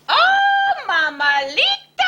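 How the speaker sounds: very high, loud yelp of fear; frightened cry. A narrator's reading. Scapito seeing the Bobolito, loud high fearful cry. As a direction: shriek at the shadow. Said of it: "cried Scapito".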